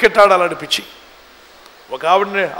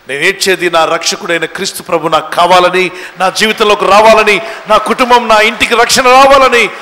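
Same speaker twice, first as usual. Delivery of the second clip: building to a loud plea; fervent prayer; 6 dB louder than usual. Acted. Believer tells the Lord what they seek, loud fervent plea. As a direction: plead with rising force, phrase by phrase.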